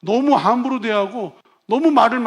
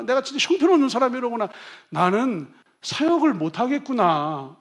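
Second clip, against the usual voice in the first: rising self-reproach; 4 semitones higher than usual. Retold or imitated. Worker's inner lament, building.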